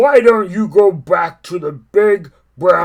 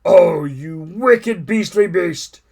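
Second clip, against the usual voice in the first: loud, slow outraged elephant; crying out angrily; 3 semitones higher, 8 dB louder, much slower than usual. Acted. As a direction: drag out wicked beastly beast in outrage. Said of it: "cried Trunky".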